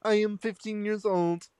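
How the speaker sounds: put-on stiff, mechanical ghost girl; robotic voice. Friend voicing a creepy chain post, robotic voice. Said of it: "the robotic voice".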